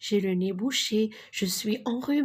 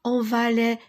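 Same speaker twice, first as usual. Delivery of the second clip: calling out; 3 dB louder than usual. Acted. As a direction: call the cat to come help. Dog calling cat in story. (appel enjoué du chien)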